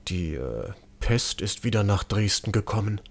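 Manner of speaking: doctor confides the plague has returned, hushed. A narrator's reading. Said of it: "senkte sich zu einem Flüstern".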